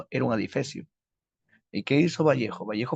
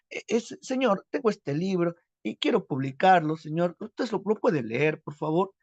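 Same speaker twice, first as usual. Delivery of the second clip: higher, halting timid provincial youth; timid plea; 3 semitones higher than usual. Acted. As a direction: stammer out a shy, humble request. Vallejo tímido pide ayuda. (súplica tímida y aguda, titubeando)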